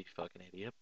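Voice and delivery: a hushed aside insult kept to himself; muttered inner insult. Retold or imitated. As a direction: mutter it like a private thought. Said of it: "thinking in my head".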